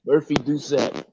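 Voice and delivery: patient careful repetition of the name; slow clear repeat. Real, not acted. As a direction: say it again slowly so he catches it.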